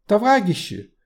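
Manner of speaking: Товарищи with throaty uvular r, high and loud; guttural French r. Acted. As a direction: burr the r in Товарищи. Lenin tries to interject.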